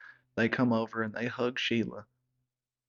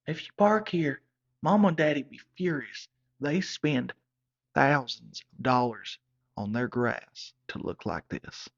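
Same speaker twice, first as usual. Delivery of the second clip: high, loud panicked plea dropping to a whisper; she's horrified he parked on the lawn; panicked girlfriend; 4 semitones higher, 4 dB louder than usual. Retold or imitated. Girlfriend panics as her boyfriend parks on her parents' lawn, high frantic plea. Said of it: "and Sheila said".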